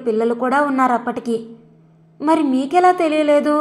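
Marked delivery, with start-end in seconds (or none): 2.2-3.5 surprised. A narrator's reading. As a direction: ask in disbelief. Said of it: "ఆశ్చర్యంగా అడిగింది రూప". (ఆశ్చర్యంగా, గొంతు పైకి)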